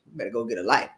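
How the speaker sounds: retold cussing out. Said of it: "she got cussed out".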